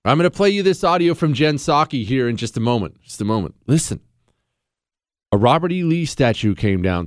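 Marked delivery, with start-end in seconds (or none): none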